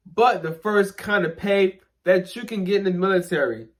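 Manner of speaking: talking around whitening strips; slightly lisped, strips on teeth; with whitening tray. Real, not acted. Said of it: "I'm speaking kinda weird".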